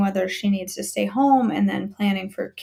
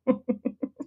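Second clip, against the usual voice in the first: high-pitched laugh after a joke; 4 semitones higher, 3 dB quieter than usual. Real, not acted. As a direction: laugh at your own silly remark.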